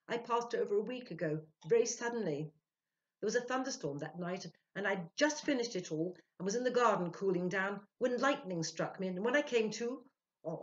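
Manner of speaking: a lightly voiced ghost recounting; spirit's story. A narrator's reading. The spirit telling of its death, lightly voiced. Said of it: "came the answer".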